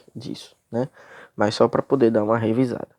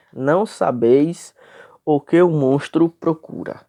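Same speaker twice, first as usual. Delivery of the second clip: reading the verse straight through, slightly raised; leitura direta; 3 semitones higher than usual. Shown as a demonstration. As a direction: read the line without splitting syllables. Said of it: "Eu li direto". (leitura direta do verso, sem escandir)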